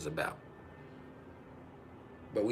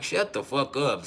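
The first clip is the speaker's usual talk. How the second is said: exasperated retort; 3 semitones higher, slower than usual. Retold or imitated. Answers the imitated excuse.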